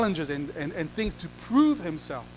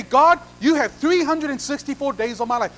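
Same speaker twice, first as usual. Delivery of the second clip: bargaining; 4 semitones higher, 4 dB louder than usual. Acted. Believer bargaining with God.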